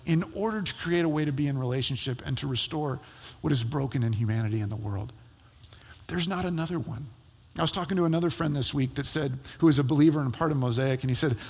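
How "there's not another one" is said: whisper. Acted. Quiet close of sermon point.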